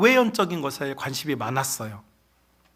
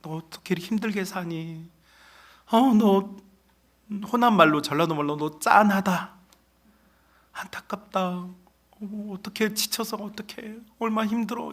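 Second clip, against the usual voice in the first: soft, softer pitying coo; devil's pity; 2 semitones higher, 3 dB quieter than usual. Retold or imitated. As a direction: lure with false sympathy. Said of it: "마귀는 자꾸 나한테 말해요". (부드럽게 동정하는 마귀의 속삭임)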